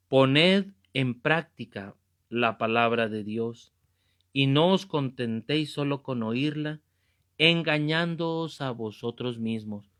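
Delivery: slow, weighty reading of the verse; measured, solemn scripture recitation. Acted. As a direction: read the Bible verse deliberately to the flock. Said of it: "Se lo vuelvo a leer".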